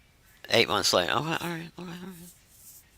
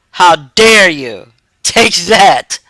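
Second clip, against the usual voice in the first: hammed-up indignant cry, louder; mock outrage; 4 dB louder, much slower than usual. Streamer to a critic in chat, mock outraged. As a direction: act scandalized at the chat.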